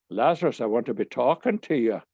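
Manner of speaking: put-on Irish brogue; amateur Irish accent; bad Irish accent. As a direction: imitate an Irish teacher, badly. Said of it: "Forgive my bad Irish accent".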